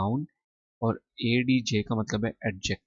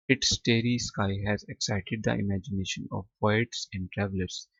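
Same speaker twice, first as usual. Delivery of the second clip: very slow, each English word set apart for students; slow dictation reading; much slower than usual. Shown as a demonstration. Teacher to students, slow careful reading aloud. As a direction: read Arabia is a land of charm and beauty slowly for the class. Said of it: "teacher reads English text slowly".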